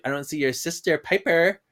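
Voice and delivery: lightly done mock French accent; bad French accent. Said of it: "the girl doing a bad French accent".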